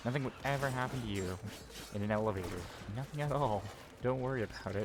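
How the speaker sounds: sarcastic false reassurance, lifted pitch; mock soothing. Mocking elevator safety claims.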